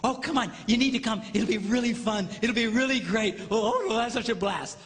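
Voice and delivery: mildly hammed-up, lively pleading; eager coaxing. Spouse urging partner to come along, eager coaxing. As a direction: coax them with a touch of excess excitement.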